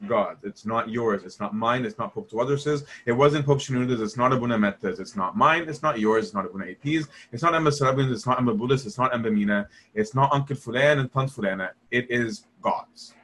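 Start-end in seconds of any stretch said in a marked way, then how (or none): none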